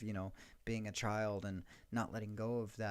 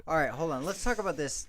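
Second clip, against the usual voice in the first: excited; 5 semitones higher, 6 dB louder than usual. Real, not acted. Reacting to co-host's outburst.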